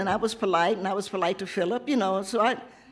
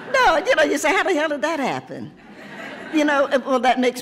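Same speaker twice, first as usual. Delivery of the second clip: laughing; 8 semitones higher, 5 dB louder than usual. Real, not acted. Laughing at her student's age.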